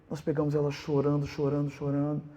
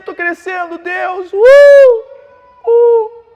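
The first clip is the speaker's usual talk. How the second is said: much higher, loud, shouting fake enthusiasm; mock gushing newcomer; 19 dB louder, slower than usual. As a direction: ham up an overexcited new believer. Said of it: "Quantas pessoas que começaram". (crente novo empolgado, imitação exagerada, aguda e gritada)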